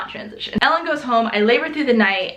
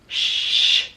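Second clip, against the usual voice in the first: shushing. Retold or imitated. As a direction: hush the room. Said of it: "don't touch me".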